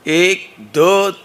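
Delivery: put-on loud counting call to the children; loud rally-style count; slogan call. Shown as a demonstration. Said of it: "हम बोलेंगे एक, दो, तीन, चार".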